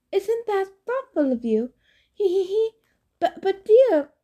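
high falsetto bride with a nervous titter; Grover as simpering bride. Acted. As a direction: overplay the coy giggling lady.

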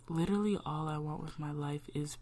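breathy whisper, barely voiced; soft whispered longing for peace. Real, not acted. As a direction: hush it like a private wish. Voice drops on wish.

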